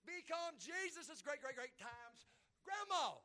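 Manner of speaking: slow, high preaching cry; triumphant proclamation. Real, not acted. Preacher proclaiming Rahab in Jesus' lineage, triumphant drawn-out cry. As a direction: draw out every word, starting at full volume.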